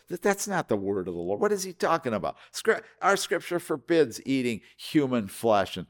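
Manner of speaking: a hint of indignant, scandalized townsfolk; lightly voiced outrage, pitch jumping up in protest; mock-shocked grumbling among themselves; quarreling crowd. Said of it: "he's hearing them quarreling among themselves".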